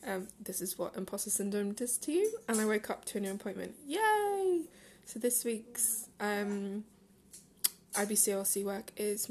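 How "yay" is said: excited. Real, not acted. Happy news of a new appointment.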